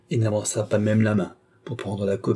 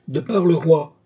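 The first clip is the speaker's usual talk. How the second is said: loud, higher official proclamation; sonorous voice; 6 semitones higher, 5 dB louder than usual. A narrator's reading. Official announcing himself from the antechamber, sonorous. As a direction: ring out like a royal herald. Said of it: "articula une voix sonore".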